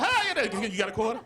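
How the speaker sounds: bright high "Hi" then a casual ask for a quarter; cheery panhandler ask. Retold or imitated. Panhandler greeting a passerby, high and cheery. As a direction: mimic a friendly street hustler.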